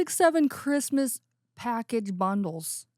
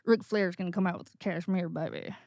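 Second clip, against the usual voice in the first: mock wrestler trash talk; 4 semitones lower, 4 dB quieter, faster than usual. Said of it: "he'd be like".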